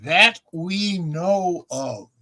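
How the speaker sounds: slow, drawn-out "That we know of"; punchline finish. Retold or imitated. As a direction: stretch "That we know of" as a delayed punchline. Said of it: "His finish was".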